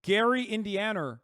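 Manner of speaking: put-on saying Gary the way he does in his accent. Asked to say Gary in the guest's accent, he mimics it lightly. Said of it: "Say Gary in his accent".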